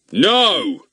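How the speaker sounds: angry policeman roars down the phone. A narrator's reading. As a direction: bark a furious no. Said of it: "roared the angry policeman".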